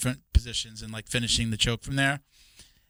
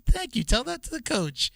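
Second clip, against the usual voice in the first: raised, sarcastic thanks; mock thanks; 10 semitones higher than usual. Milt answering the teddy bear compliment, high and sarcastic. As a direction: toss it back with sarcasm.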